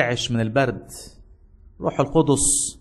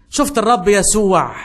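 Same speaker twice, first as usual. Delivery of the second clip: louder, slow and awestruck; awed child; 6 semitones higher, 5 dB louder than usual. Acted. Boy tells the soldier he saw the Lord, slow and awed. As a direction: let the wonder land on each word. Boy's joyful climax of story.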